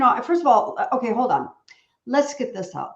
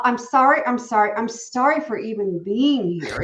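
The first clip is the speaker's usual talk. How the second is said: mock apologizing.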